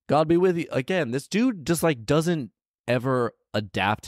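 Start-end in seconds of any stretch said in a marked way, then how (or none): 0.1-0.7 high called greeting; mock call out. Man calling out to fighting giants, high called greeting. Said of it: "the man called out".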